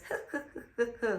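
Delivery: soft mock-evil cackle; evil laugh. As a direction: mimic a bird's sneaky villain laugh. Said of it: "like, evil laugh".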